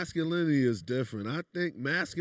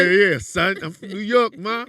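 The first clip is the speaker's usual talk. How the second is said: loud, higher hammed-up New York accent; exaggerated New York accent, shouted; 4 semitones higher, 11 dB louder than usual. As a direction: play the New York guy showing off. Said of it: "that's an accent get deep".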